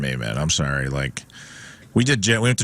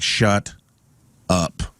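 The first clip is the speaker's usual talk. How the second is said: "Shut" and "up" split by a pointed pause; exasperated thought, one word at a time: "Shut ... up"; imagined exasperated thought. Retold or imitated. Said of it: "thought bubble above her head where she's like".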